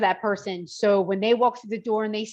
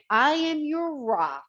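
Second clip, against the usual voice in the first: slow, firm pledge with raised pitch; confident energy; much slower than usual. Retold or imitated. Trainer lending a struggling client strength, confident energy. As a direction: stretch it out with steady confidence. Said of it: "that energy of confidence".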